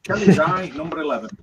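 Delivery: bingo caller. Acted. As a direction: call it like a bingo hall caller. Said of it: "bingo call names".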